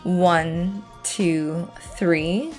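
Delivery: calm, even voiceover read; walk them through it calmly; voiceover narration. Acted.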